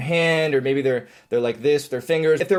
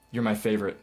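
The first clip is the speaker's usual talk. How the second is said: softer, sincere try; more believable; 5 semitones lower, 6 dB quieter, faster than usual. Shown as a demonstration. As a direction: try to sound like you mean it. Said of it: "a little more believable in my intonation".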